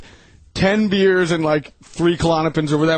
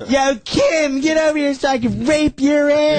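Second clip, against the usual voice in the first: lightly acted drunk, pitched high; mock drunk holler, high-pitched; imitating drunk friend; 9 semitones higher than usual. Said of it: "every time he gets drunk".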